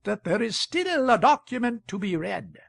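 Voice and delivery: high, loud, commanding shout. A narrator's reading. Chair calling an excited crowd to their places, commanding shout. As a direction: bellow the room back to order. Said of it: "The chair's voice now rose above the noise".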